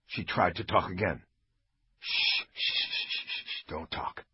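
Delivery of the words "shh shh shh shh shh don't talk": soft whispered shushing, slowing at the end; soothing hush. Acted. Bosch calms the wounded officer, soft whispered pleading. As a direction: hush her gently, begging her to live. Bosch hushes the dying woman.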